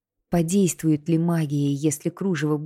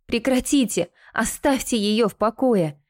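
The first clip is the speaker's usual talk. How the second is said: high, restrained cry of protest; 6 semitones higher than usual. A narrator's reading. Anya begs torturer to leave Kinta alone, crying out. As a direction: call out high, demanding they stop. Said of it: "закричала Аня".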